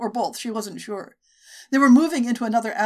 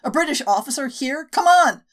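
rough shout; 6 semitones higher, 7 dB louder than usual. Acted. Attacker rallies his mates.

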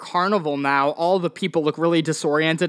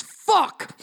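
screamed curse. Acted. Game master voices the doctor slamming his desk, screaming. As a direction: cry the curse out high, in character. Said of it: "and he screams".

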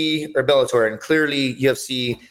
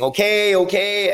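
high, dazed repeated okay; dazed mumbling; 7 semitones higher, slower than usual. Retold or imitated. Knocked-out fighter waking up, dazed and high. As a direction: say it like you just woke from a knockout. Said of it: "I was saying".

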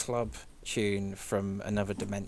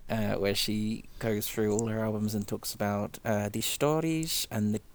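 impression of a singer; 4 dB louder than usual. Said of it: "You're nailing it".

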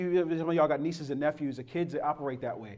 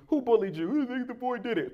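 grandma's voice; 7 semitones higher than usual. Retold or imitated. Grandma questioning crying grandson.

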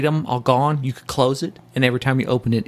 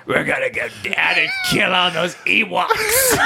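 put-on Aussie accent; 7 semitones higher than usual. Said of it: "drinking Foster".

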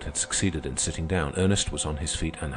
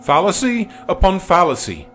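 shrill outraged cry, much higher and louder; 13 dB louder than usual. A narrator's reading. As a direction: bellow it in high outrage. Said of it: "he cried".

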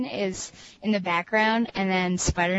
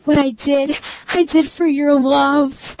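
Black Cat voice; 5 semitones higher, 6 dB louder than usual. Pretend. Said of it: "do it in your Black Cat voice".

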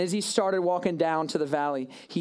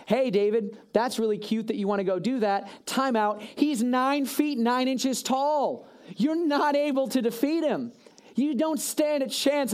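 doubting king; 6 semitones higher than usual. Acted. Saul doubting David.

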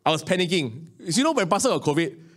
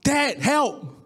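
mock plea; 7 semitones higher than usual. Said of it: "first person I call".

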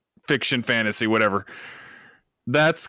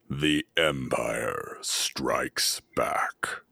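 low, slow breathy threat; ominous whisper; 11 semitones lower, 6 dB quieter, much slower than usual. Shown as a demonstration. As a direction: breathe it like a dark lord. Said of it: "deep, ominous".

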